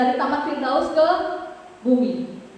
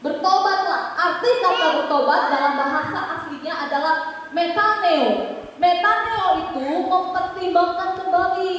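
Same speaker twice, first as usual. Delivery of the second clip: higher-pitched, insistent sermon delivery; emphatic preaching; 6 semitones higher than usual. Real, not acted. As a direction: preach it urgently to the congregation. (khotbah yang tegas)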